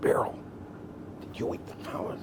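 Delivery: soft, breathless mock yell; wife hisses at her husband under her breath; silent yell. Wife scolds husband about the rolls, in a soft mock yell. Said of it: "yell without making a sound".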